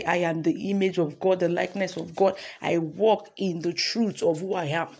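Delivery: firm confession for the congregation to repeat; declaration. Acted. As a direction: declare each line with conviction. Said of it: "Let's say".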